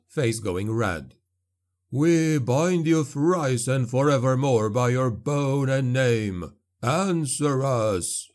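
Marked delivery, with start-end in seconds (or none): 1.9-8.3 slow, solemn binding chant; ritual incantation. A narrator's reading. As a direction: intone it like a spell.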